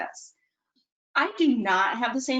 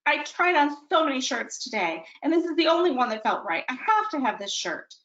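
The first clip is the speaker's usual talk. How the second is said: higher, rushing, acted tearful plea; tearful insistence; 5 semitones higher than usual. Daughter tearfully insisting to her parent she needs the shirt. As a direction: push toward tears over the one shirt that felt right. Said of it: "She's getting increasingly loud and tears".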